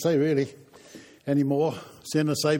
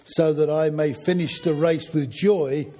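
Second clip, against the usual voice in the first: measured, emphatic Bible reading aloud; scripture reading. Acted. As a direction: read the passage out clearly to the congregation. Reads Bible passage aloud to congregation.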